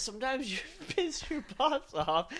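high-pitched cartoonish boss impression; mock villain boss. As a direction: put on a high, silly voice with a chuckle.

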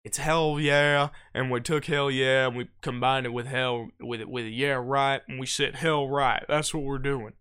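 slow, low explaining. Retold or imitated. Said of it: "He didn't have time to say".

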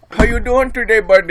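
high, loud, cheery teacher; friendly teacher voice. Retold or imitated. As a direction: greet the kid brightly. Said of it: "and he goes".

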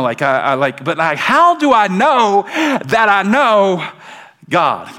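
lightly voiced questioner, rising on how do I know; a hint of a doubting believer. Believer asking Pastor Ed how to know God, lightly voiced. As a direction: play the unsure believer, searching. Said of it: "the question is".

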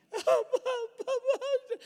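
high-pitched mock wailing sobs; hammed-up little girl's wail; imitated child's crying. Grandpa imitating his granddaughter bursting into tears, mock crying. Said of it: "she starts crying".

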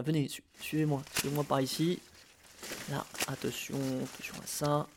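hushed, careful guide voice; wildlife watching whisper. Pretend.

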